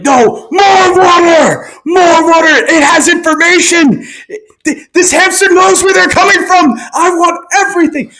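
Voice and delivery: desperate yelling interrogator; frantic shouting. Pretend. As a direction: scream it like a torturer losing control. Mock interrogator shouting at hamster.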